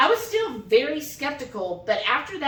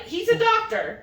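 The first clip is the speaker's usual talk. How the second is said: much higher mock voice; imitating husband; 11 semitones higher than usual. Wife teasing her husband's surprise, much higher. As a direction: quote him with a teasing lift.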